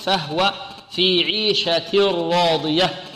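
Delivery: slow فهو في عيشة راضية with a voiced wa; careful Quran reading; recitation demo. Shown as a demonstration. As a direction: recite the phrase slowly in tajweed. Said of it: "فهو في الوقف".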